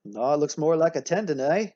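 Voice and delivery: second Canadian objecting, badly faked accent; mock Canadian accent. Teacher as the other Canadian disagreeing, mock Canadian accent. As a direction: play up the Canadian "eh". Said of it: "forgive me for my terrible accent".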